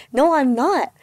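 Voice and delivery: retold frustrated protest; frustrated retort. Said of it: "so frustrated and mad hearing that".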